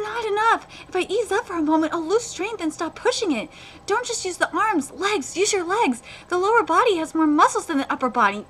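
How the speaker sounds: lightly acted effortful inner monologue; animated dialogue reading; manga read-aloud. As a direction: read a character urging himself on. Reads manga character's thoughts.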